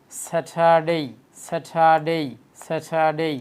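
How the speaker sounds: স্যাটারডে with breathy "tha" and long "dey"; correct Saturday. Shown as a demonstration. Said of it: "আমি আবার repeat করে দেখেন". (স্যাটারডে শুদ্ধ উচ্চারণে, "স্যাঠাডেই")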